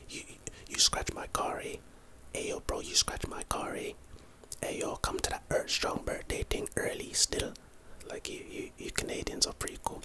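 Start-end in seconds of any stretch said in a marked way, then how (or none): 0.1-7.5 put-on whispered take on a Canadian accent; a hint of playful Canadian accent, whispered; imitated Canadian accent. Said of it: "I love your accent".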